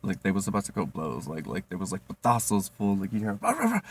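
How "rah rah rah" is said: high, loud mock argument noise; imitating coworkers yelling; mock shouting. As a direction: ape a heated argument. Imitates the cooks arguing.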